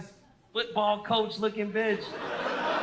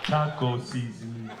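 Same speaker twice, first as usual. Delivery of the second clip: defeated husband; 9 semitones lower than usual. Retold or imitated. Husband in grocery store mutters to onlooker, low and hopeless. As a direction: sound utterly crushed and resigned. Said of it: "he just goes".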